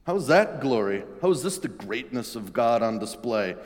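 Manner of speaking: a lightly voiced Peter pushing back; a touch of an incredulous friend; Peter arguing. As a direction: argue like a disbelieving disciple.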